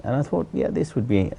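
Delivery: normal talking voice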